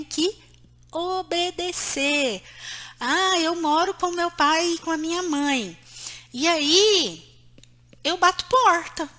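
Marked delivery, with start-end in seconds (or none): 3.0-9.1 lightly mocking a sulky kid; a hint of a teen slamming doors; defiant grown child. (leve imitação de filho rebelde)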